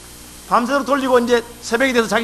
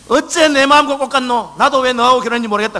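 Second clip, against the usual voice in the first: mock angry retort; 3 semitones higher, 5 dB louder than usual. Husband snaps back at wife.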